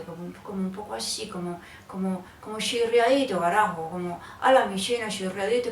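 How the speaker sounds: lightly imitated Bogotá rolo accent, quick; a hint of pinched Bogotá rolo speech; tight-mouthed rolo. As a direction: squeeze the words like an old-school bogotano. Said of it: "un poco apretadito".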